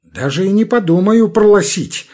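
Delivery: пролосить with l for r; burry пролосить. A narrator's reading. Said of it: "сосёт равнодушно Арап".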